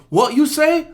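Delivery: very high, rising mock challenge; indignant old man. Old Asian guy confronting the other man, indignant. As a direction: imitate an affronted old man. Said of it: "he goes".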